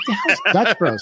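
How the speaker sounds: amused mock confusion; baffled. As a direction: ask like you've never heard of it. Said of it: "And I'm like".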